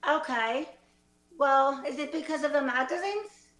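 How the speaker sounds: rough mock Australian; Australian accent. Graduate asking about the magazines, in an Australian accent. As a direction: ask it with a faked Aussie accent. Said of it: "let's say they're all Australian".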